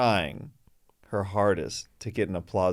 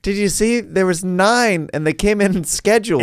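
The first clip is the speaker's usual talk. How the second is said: mock excited believer; 9 semitones higher, 6 dB louder than usual. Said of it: "It's like".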